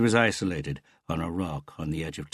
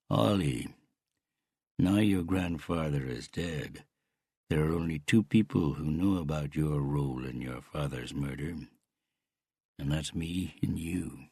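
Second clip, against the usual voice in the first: menacing Canadian uncle. Acted.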